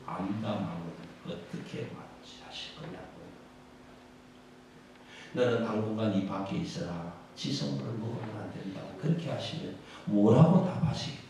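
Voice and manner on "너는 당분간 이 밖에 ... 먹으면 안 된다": low, soft, cold verdict; stern heavenly judge. Acted. The archangel turning away the false believer, low cold verdict. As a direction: lower the voice and dismiss them.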